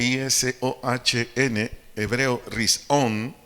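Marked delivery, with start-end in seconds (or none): 2.5-3.4 rizón with the final O accented; stress on the O. Shown as a demonstration. Teaching the congregation a Hebrew word, stressing the O in rizón. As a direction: stress the last syllable of rizón. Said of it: "acento en la O".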